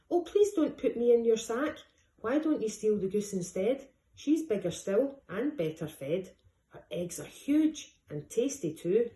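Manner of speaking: 3 beg not to go in the sack; 1 pleading duck. Acted.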